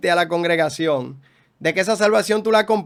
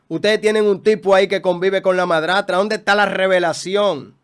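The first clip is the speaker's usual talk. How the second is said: raised, driving sermon voice; fiery preaching; 2 semitones higher than usual. Acted. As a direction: preach it hard at the congregation. Preaches at full force.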